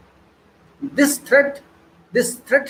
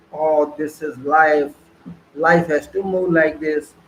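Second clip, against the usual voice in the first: mock resigned excuse; 4 semitones lower, slower than usual. Mocking ordinary people who excuse themselves, lower and slow. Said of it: "Very simple excuse".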